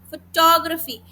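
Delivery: फोटोग्राफी with a light juncture after फोटो; फोटो, tiny pause, ग्राफी as one word फोटोग्राफी; slight pause mid-word. Shown as a demonstration. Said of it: "एक हल्का सा pause था".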